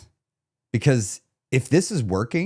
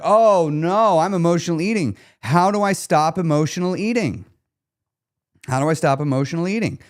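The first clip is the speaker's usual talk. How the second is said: mock panic; 5 semitones higher than usual. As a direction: play the fretting dieter, a little hammed-up. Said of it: "a lot of people are like".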